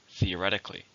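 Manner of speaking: Theoretically, with the weight on "ret"; stress on the third syllable. Shown as a demonstration. Teacher modelling the word for learners, stress on "ret". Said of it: "stress on the third".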